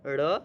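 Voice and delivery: "ड़" as a retroflex flap with a short vowel; Marathi letter sound. Shown as a demonstration. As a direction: sound out "ड़" alone, tongue curled back. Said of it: "उच्चारण होता है".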